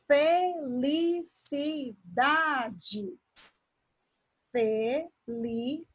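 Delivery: "felicidade" broken into fe, li, ci, da, de; "felicidade" in measured, separated pieces; syllable by syllable. Shown as a demonstration. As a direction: slowly sound out each syllable of "felicidade". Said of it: "Quando eu faço a separação silábica".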